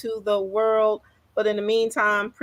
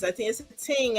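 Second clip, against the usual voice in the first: Caribbean accent; 4 semitones higher, 5 dB quieter than usual. Shown as a demonstration. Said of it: "in my Caribbean voice".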